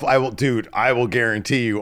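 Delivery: ordinary delivery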